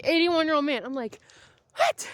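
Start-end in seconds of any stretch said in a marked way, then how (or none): 1.8-2.1 high, loud disbelieving yelp; shocked what. Real, not acted. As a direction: blurt it out in sheer disbelief. Shocked by old man squatting.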